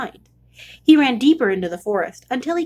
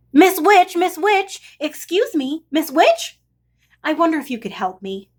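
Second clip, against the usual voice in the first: calling out; 5 semitones higher than usual. Acted. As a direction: hail her from across the path, then ask nicely. Calling out to witch.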